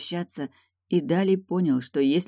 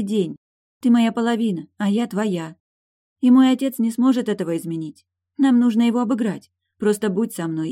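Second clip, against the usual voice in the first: much higher and louder, urgent love; passionate young princess; 7 semitones higher, 6 dB louder than usual. A narrator's reading. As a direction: pour out love and defiance. Eilin voiced by narrator.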